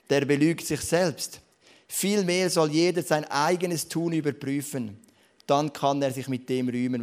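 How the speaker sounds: scripture reading. Acted. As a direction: read the verse out to the church with weight. Reads Bible verse aloud.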